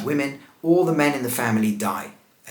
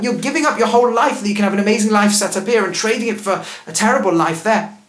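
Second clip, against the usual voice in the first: louder, urgent, persuasive plea, a touch above his own voice; pleading Naomi; 3 semitones higher, 4 dB louder than usual. Pretend. Naomi urging her daughters-in-law to stay, louder insistent plea. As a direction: talk the girls out of coming, pressing every reason. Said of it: "What would you say?".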